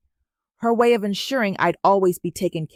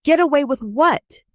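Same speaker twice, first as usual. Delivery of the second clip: mocking, scornful, higher and louder; icy mockery; 8 semitones higher, 6 dB louder than usual. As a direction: toss it back with cold scorn. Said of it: "Regina's laugh was like ice water".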